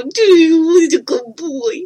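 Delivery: high, loud and playful, egging the dog on; playful dog talk. Real, not acted. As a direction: rev up the dog like a playmate. Playfully roughhousing with his dog.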